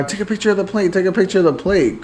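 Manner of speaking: lightly mimicked mother giving orders; bossy mother, imitated. Mother directing her daughter, imitated urgent orders. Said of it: "she was telling her daughter".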